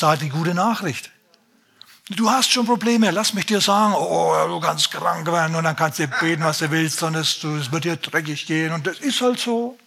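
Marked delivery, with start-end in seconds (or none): 2.1-9.8 mock gloomy preacher. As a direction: parody a preacher who promises only suffering. Mocking a gloomy gospel preacher.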